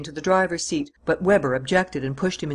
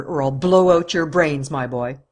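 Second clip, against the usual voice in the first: slow, loud menace; menacing threat; 4 dB louder than usual. Acted. Weber threatens his prisoner, slow and loud. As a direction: press the threat home. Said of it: "growled Weber".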